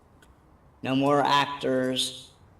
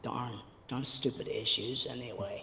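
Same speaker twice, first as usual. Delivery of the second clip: damp muffled mushroom voice; 3 semitones lower, 10 dB quieter than usual. Real, not acted. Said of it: "I like your new voice".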